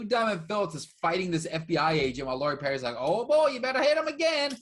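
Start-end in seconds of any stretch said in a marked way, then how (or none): 3.0-4.6 high-pitched, loud mock scream; hammed-up yelling from an action scene; screaming movie character. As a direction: holler it fast over a fight, imitating the film. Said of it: "And it's like, he's screaming".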